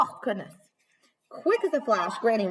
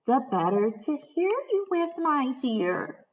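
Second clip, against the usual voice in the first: sly wolf voice; 3 semitones higher than usual. Acted. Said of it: "cried the wolf".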